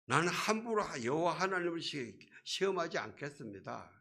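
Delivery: seemingly pious. Acted. Preacher imitating Ahaz's false humility, lightly mock-pious. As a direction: protest with a show of reverence. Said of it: "굉장히 경건한 소리 같아요".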